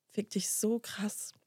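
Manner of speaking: unvoiced, slow whisper; whispered curse. Telling the stranger off, in a slow whisper. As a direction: hiss the curse under your breath, slowly. Venting at the man's plan.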